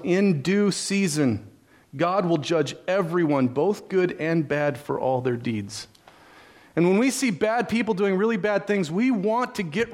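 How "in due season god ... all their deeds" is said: scripture reading. Acted.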